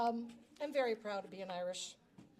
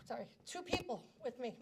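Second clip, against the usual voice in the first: choking up; 4 dB quieter than usual. Real, not acted. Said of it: "Sorry, I wasn't gonna do this".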